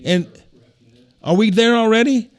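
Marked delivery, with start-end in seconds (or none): 1.2-2.3 high, laughing aside at himself; amused self-mocking aside, higher and louder. Real, not acted. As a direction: chuckle through the words. Laughs at going off topic.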